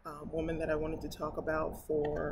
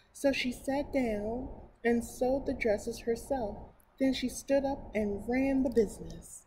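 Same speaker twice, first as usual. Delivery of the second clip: slightly higher, clearer storybook reading; story narration; 4 semitones higher, 4 dB louder than usual. Acted. Reading a picture book to her viewers, storybook narration. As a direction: read it aloud to children.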